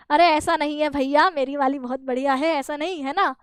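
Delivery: a touch of bashful hesitation. Retold or imitated. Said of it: "संकोच से शर्माते हुए".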